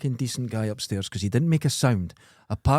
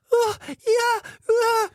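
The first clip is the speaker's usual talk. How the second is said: mock moaning; 3 dB louder, much slower than usual. Imitating neighbour's sex noises.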